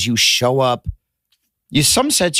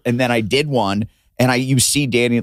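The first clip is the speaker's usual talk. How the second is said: normal talking voice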